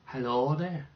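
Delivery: put-on een licht Amerikaans accent, speels; American accent. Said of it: "I can sound like an American".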